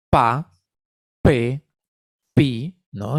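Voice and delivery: "pa", "pe", "pi" with crisp, overdone lip plosives; exaggerated articulation. Shown as a demonstration. Therapist modelling plosive syllables for students, crisply overarticulated. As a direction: spit out each "pa", "pe", "pi" with deliberately exaggerated articulation. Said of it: "una articulación incluso exagerada".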